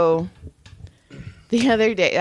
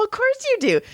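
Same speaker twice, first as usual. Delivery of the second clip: mock scolding; 10 semitones higher than usual. Mock-scolding client in retelling.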